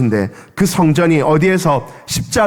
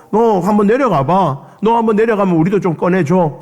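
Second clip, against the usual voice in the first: higher, coarse jeer; robber's taunt; 4 semitones higher than usual. Retold or imitated. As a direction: bait him from the next cross. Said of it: "옆에 있던 그 강도들도".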